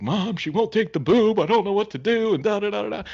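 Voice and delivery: high-pitched mock-tearful wife; imitating crying wife. Wife on the phone to her mom, mock tearful and high. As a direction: squeak it out like a panicking new mom. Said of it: "She's like".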